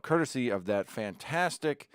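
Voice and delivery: mock praise, leaning on "fantastic"; sarcastic. Real, not acted. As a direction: say it with sarcastic admiration. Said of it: "I am being very sarcastic there".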